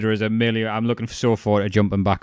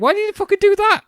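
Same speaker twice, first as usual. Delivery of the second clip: much higher, louder mock outrage; shrill incredulous surfer; 5 dB louder, faster than usual. Mimicking the surfer yelling at his own legs, high and outraged. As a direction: yelp it like the stunned surfer. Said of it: "he's like".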